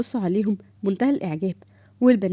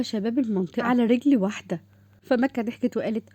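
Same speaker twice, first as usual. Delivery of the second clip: story narration. A narrator's reading. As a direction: narrate the scene evenly.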